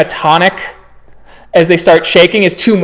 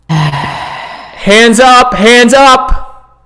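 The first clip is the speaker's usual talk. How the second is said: higher-pitched urgent command; shouted police order; 5 semitones higher, much slower than usual. Acted. Cop drawing on Kyle and Cora, urgent raised order. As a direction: call it out as an armed cop.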